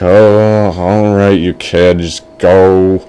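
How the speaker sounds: drawn-out, reluctant parent voice; parents giving in. Acted. Parents let the boy go, reluctantly giving in. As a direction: give in to the kid, a little low. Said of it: "His parents were like".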